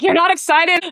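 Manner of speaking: high, loud puzzled question; mock incredulous caller. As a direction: imitate a caller taken aback. Acted caller puzzled by her reaction.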